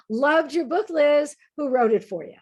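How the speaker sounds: a sly put-down wrapped in a grin; mock jokey jab. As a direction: needle her, pretending it's just kidding. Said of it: "in one of those "Come on, I'm just kidding" sort of ways".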